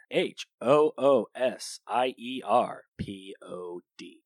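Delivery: H O O S I E R P O D spelled letter by letter, slowly; spelling it out. Shown as a demonstration. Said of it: "use the promo code Hoosier Pod".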